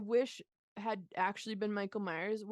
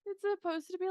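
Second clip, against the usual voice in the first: high-pitched, laughing through the words; laughing while talking; 9 semitones higher, 4 dB louder than usual. Real, not acted. Podcaster amused by a silly headshot prop, laughing. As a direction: try to explain through giggles.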